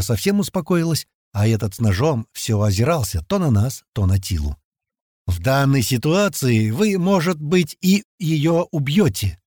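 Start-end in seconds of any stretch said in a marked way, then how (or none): 5.3-9.4 slow, measured reasoning, pitched higher; calm, reasonable. Acted. Fat man stepping into a knife quarrel, calm and reasonable. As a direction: reason with them unhurriedly. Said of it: "спокойный рассудительный голос".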